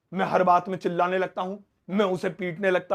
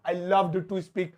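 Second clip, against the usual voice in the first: slow model sentence; much slower than usual. Shown as a demonstration. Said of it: "slow model repeated".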